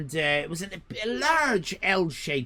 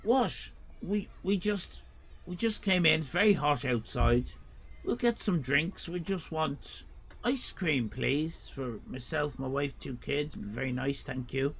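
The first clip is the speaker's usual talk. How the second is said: softer, polite pleading; polite reply; 2 semitones lower, 5 dB quieter than usual. Retold or imitated. Customer politely asks the owner for ice cream. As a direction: keep it meek and reasonable. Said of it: "I, I said".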